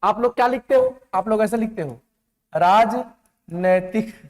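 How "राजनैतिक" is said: राजनैतिक slowly in parts, with an ai vowel in नै; slow syllable-by-syllable राजनैतिक with नै; wrong spelling demonstrated. Shown as a demonstration. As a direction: sound out राज-नै-तिक, drawn out and lower. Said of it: "गलत है, गलत।".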